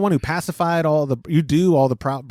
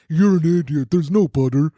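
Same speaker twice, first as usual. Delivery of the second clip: stupid voice imitation; 3 semitones lower than usual. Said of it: "the guy with the stupid voice".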